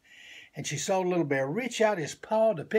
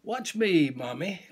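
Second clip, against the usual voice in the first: cub calling out to his mother; a little cub's happy call across the river; young cub voice, calling out; 2 semitones higher than usual. Acted. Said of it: "called Little Bear".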